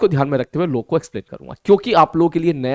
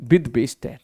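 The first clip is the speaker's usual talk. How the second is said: "टेन, with base ten" drawn out, low and soft; slow reading demo; 6 semitones lower, 6 dB quieter, much slower than usual. Shown as a demonstration. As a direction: read "with base ten" slowly and quietly. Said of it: "इस प्रकार से हम इसको बोलते हैं". ("with base ten" धीमे, नीची आवाज़ में पढ़कर)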